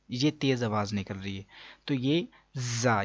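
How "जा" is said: जा with a hard, whistling z; sharp z at the start of जा; firm z. Shown as a demonstration. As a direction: press firmly into the buzz of जा. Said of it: "सख्ती से पढ़ेंगे".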